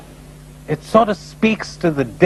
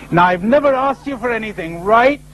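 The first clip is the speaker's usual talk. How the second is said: put-on pious old man pleading; 6 semitones higher than usual. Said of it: "says he himself to himself".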